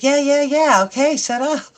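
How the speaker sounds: loud impatient yeah yeah yeah; irritated snap. Retold or imitated. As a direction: brush him off, fed up. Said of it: "sometimes it slips out".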